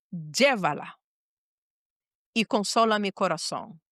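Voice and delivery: grave bargaining prayer, pausing between phrases; retold earnest prayer. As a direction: pray it solemnly, weighing each phrase. Retold difficult prayer to God.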